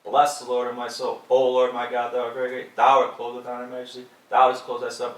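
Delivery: mock reader punching each phrase loudly; overemphatic reading. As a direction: hit "Bless", "O Lord" and "Thou" hard, in a rigid repeated pattern. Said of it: "you get in front of the reading".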